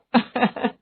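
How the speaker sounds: little pleased laugh; gentle chuckle. Acted. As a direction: chuckle while welcoming her. Mother welcoming the bride.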